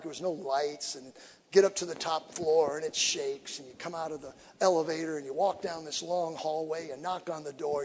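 ordinary talk

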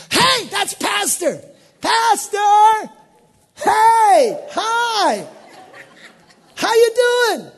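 very high, loud calling to a friend; excited calling out. Pretend. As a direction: wave him down with joy. Spotting the pastor in heaven.

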